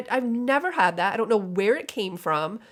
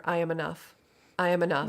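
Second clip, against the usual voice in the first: soft affirmation; 4 semitones lower, 5 dB quieter than usual. Shown as a demonstration. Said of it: "to say to yourself repeatedly".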